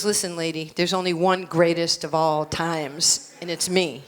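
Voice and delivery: low, matter-of-fact put-down; voicing the champ. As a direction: set her straight in a low voice. Voicing Ali answering the mother.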